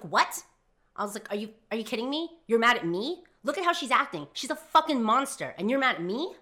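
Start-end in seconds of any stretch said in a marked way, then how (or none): 0.0-0.4 loud, incredulous retort; affronted burst; indignant disbelief. Retold or imitated. Retold indignant reply to friend. 1.3-6.3 raised, high-pitched protest; loud, incredulous, rising on the accusing questions; indignant disbelief. Retold or imitated. Retold argument with best friend.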